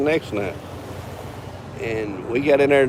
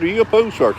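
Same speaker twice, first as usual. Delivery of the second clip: higher voice imitating an accusing player; incredulous retold question; 8 semitones higher than usual. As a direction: mimic his suspicion, pitched well up. Retold challenge from suspicious player.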